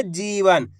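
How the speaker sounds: "जीवन" with the ई held long; drawn-out vowel. Shown as a demonstration. Teacher showing learners how to read it, "जीवन" with long ई. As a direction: stretch the जी in "जीवन", falling at the end. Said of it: "इसी प्रकार से खींच के पढ़ना".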